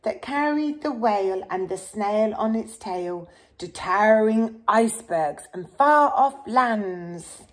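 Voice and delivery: steady storybook read-aloud; reading to children. Acted. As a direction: read the rhyme gently to a child. Reads picture book to child.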